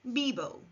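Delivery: "bibo" with b sounds, falling; model Spanish verb. Shown as a demonstration. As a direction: say "bibo" clearly for learners. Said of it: "Repeat after me".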